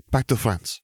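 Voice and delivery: high, chirpy announcement; chirped. A narrator's reading. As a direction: call it out in a perky, lifted voice. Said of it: "Gabby chirped".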